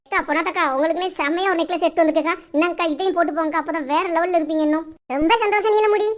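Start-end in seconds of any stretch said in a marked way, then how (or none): 0.1-4.8 neighbour ribbing Ponnatha about having no chain; neighbour Neelamudi. Acted. Neighbour offering necklace.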